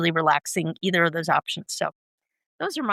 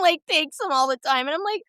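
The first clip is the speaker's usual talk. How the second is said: usual speaking voice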